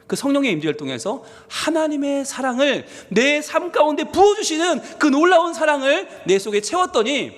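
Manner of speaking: ordinary talk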